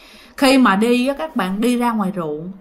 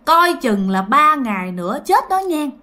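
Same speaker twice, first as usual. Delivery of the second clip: ominous warning; 3 semitones higher than usual. Retold or imitated. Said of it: "Ổng nói vậy đó các bạn".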